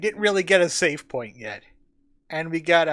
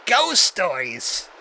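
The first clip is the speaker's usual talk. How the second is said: scoffing guard; 6 dB louder, much slower than usual. Acted.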